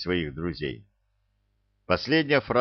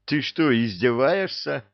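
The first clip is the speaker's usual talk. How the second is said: indignant; 6 semitones higher than usual. Acted. Youth indignant at imp.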